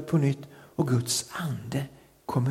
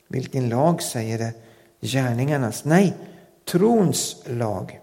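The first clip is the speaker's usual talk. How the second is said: measured Bible reading with weighty pauses; scripture reading. Real, not acted. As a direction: read the verses out deliberately, stressing key words. Reads a Bible passage aloud. (högtidlig bibelläsning)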